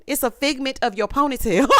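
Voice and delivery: laughing at her own pun; giggling through the punchline; laughing joke. Real, not acted. Host mocking the ponytail, laughing. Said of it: "I'm sorry, your imagination".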